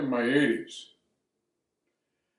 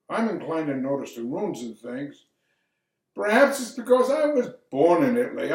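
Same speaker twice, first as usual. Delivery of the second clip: lightly acted stage monologue, key phrases lifted; lawyer Alfieri. Lawyer telling of his Red Hook neighborhood, lightly acted narration. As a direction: play a reflective narrator, lightly theatrical. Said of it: "I'm gonna do a monologue".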